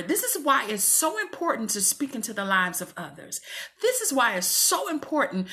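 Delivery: choked up, speaking through real tears; tearful plea to her listeners; crying. Real, not acted. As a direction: push the words out while crying. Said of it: "I can't even talk".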